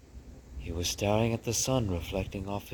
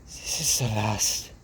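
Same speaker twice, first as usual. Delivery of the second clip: slow, louder, grand proclamation; proclaiming mother mouse; 4 semitones higher, 5 dB louder, slower than usual. Acted. Mother proclaiming from her bed, slow and grand. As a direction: declare it slowly like a diva.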